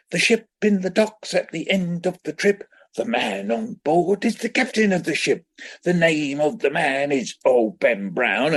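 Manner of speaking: lively, high, bouncing recital; danced the poem. Retold or imitated. Teacher performing the poem for the whole school, lively and high. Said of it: "he danced the poem".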